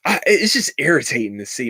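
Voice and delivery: irritated whisper under the breath. Real, not acted. Vlogger fed up with the hype, whispering. Tired aside after sigh.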